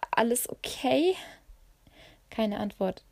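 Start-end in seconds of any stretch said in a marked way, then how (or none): 0.1-1.1 higher, anxious rising question; worried call. A narrator's reading. Narrator calls to her friend after the crash, worried. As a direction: check on her, voice climbing at the end.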